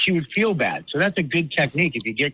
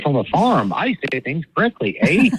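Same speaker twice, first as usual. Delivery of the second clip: mock Canadian; 3 semitones higher, 5 dB louder than usual. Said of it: "from Canada, eh?".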